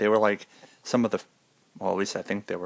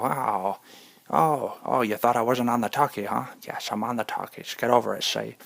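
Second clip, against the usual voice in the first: mock 1920s gangster; 2 semitones higher than usual. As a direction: sneer it like a 1920s movie mobster. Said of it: "and they go".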